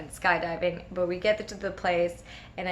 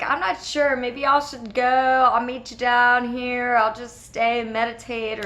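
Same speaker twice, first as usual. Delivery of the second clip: higher, mildly anxious retold wavering; anxious backing out; 4 semitones higher, 5 dB louder than usual. Nervous jumper telling friends they should go, anxious backing out. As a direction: act out getting cold feet. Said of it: "sweat anxiety. I'm starting to go".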